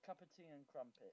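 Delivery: a light British cup of tea and crumpets; British accent on cup of tea. Shown as a demonstration. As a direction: say it like a proper Brit. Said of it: "Say, say it again".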